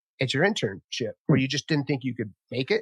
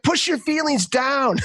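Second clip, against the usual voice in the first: higher, slow mock tough-guy advice; imitating Bill Burr; 11 semitones higher, slower than usual. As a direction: lightly do a comedian's macho advice. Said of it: "He's like".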